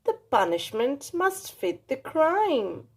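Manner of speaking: put-on slow, measured old woman's voice; stern old grandmother. Strega Nonna judges Big Anthony, slow firm old-woman voice. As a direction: lay down the law kindly but firmly. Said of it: "said Strega Nonna".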